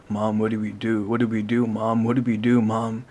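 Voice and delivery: loud panicked pleading, rising; panicked screaming. A narrator's reading. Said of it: "He screamed at the top of his lungs".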